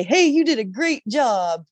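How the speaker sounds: drawn-out imitation of workplace congratulations; mock praise. Employee imitates a meeting's pat on the back, mock praise.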